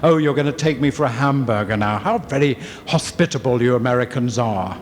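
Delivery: lightly overdone politeness; gracious performance. Retold or imitated. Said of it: "I put on my gracious performance".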